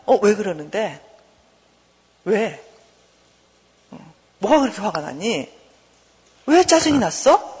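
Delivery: put-on gentle, unhurried questioning of a child; good-mother concern. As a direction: ask with patient interest, pausing after each question. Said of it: "좋은 엄마는".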